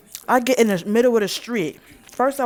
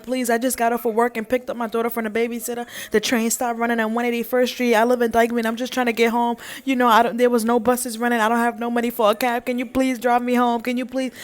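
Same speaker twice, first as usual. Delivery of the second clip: pleading; 2 semitones higher, faster than usual. Retold or imitated. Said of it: "I'm pleading".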